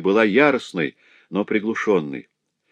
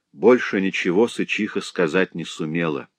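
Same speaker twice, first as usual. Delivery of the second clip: plain reading voice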